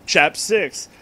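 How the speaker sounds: plain reading voice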